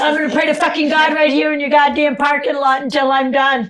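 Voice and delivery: loud, high, furious declaration; furious yell. Retold or imitated. Furious yell in the church parking lot. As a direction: yell it as a threat. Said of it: "I said".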